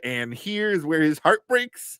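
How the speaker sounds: lightly voiced Ralph Wiggum, slow; a hint of Ralph Wiggum's sing-song. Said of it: "do the Ralph Wiggum".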